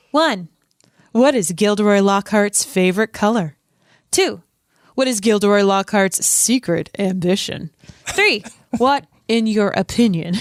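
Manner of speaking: light TV news voice, a little sing-song; Gilderoy Lockhart. Acted. Host reads out Lockhart's quiz, lightly voiced smug character. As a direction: quiz questions with a hint of self-adoration. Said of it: "love your Gilderoy Lockhart voice".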